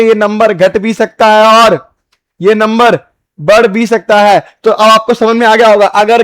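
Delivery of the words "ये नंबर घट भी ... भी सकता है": slower, with pauses between the parts; slow repeat. Shown as a demonstration. Teacher to students, repeating the point slowly. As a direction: spell it out slowly for the class. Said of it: "teacher repeats it slowly".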